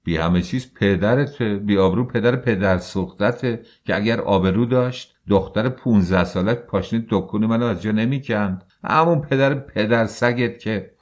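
loud, rising insults; furious retort. Acted. Husband shouts insults back. (دشنام بلند و خشمگین)

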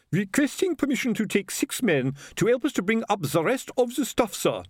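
beaming happily. A narrator's reading. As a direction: report with a proud grin. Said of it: "he said, beaming happily".

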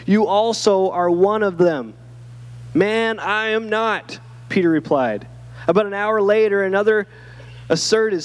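measured Bible reading, pitched slightly up; clear, steady storytelling from scripture. Acted. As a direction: read the passage aloud to a congregation. Reads Bible passage aloud.

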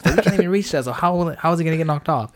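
buddy insists the place is haunted, high and excited. Retold or imitated. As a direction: squeak it out like a spooked friend. Acting out buddy's protest.

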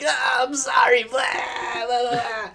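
high apologetic voice to lighten things; mock sorry, trying to smooth it over; sheepish apology. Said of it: "he's like".

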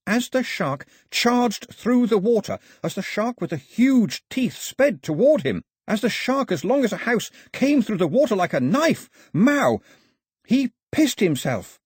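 high, breathless tale to the crowd; dramatic storytelling. A narrator's reading. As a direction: spin a wild tale, wide-eyed. Pilou dramatically tells shark story.

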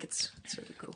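soft whisper. Real, not acted. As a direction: whisper it to yourself. Unvoiced after lyrics.

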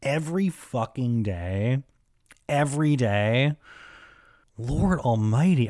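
exaggerated shock at the idea; mock disbelief. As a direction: told to floss daily, mock outrage. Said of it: "And I'm like".

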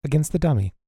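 crisp praise, then dismiss the pupil; accented training instructor. Acted. Game master voices the instructor.

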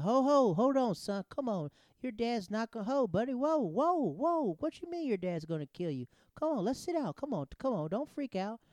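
high, loud, swooping whoas; urgent calming. Retold or imitated. Cop halting a panicking driver, imitated urgent calming. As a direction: cut in to talk someone down, voice jumping up.

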